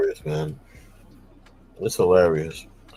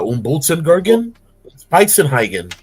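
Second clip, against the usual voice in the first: mock German nonsense words; fake German; 5 semitones higher than usual. Joking with his boy, a hint of fake German. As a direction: spout gibberish that sounds German. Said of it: "our fake German".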